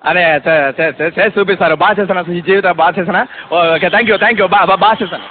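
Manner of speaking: lightly voiced stammering actor; Dr. Rajasekhar. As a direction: stumble over words, eager for approval. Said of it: "ఆయన original voice ఎలా ఉంటుందో చూపిస్తాను".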